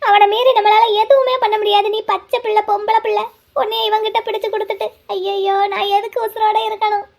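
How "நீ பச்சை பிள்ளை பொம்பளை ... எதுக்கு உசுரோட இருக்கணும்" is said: fearful weeping lament. Acted. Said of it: "நீ பயந்து அழுது".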